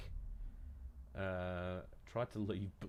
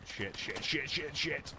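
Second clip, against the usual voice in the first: panicked swearing; 5 semitones higher, much slower than usual. Real, not acted.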